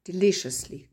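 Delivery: deliciously said with a falling tune; word-stress demo; stress model. Shown as a demonstration. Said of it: "la musique du mot".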